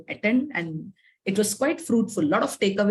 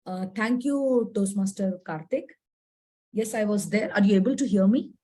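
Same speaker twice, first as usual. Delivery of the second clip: hoarse sick voice. Real, not acted. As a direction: voice rough from a cold. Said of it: "Sorry for the terrible voice because I wasn't keeping well".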